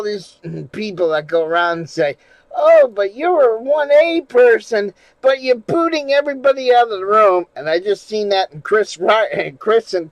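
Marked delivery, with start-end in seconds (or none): 2.5-7.5 higher-pitched imitation of complainers; mimicked complaint. Streamer mimicking people who go around objecting, high mock complaint. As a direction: mimic objectors in a raised, protesting voice.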